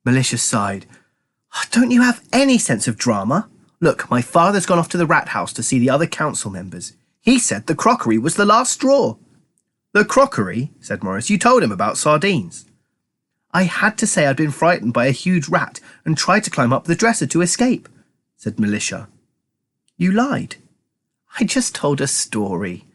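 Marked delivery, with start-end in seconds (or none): 1.7-20.6 lightly voiced dramatic girl; a hint of a bossy dramatic girl; girl character voice. Narrator voices Militia. 21.4-22.9 slow, calm reply. Acted. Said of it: "said Militia calmly".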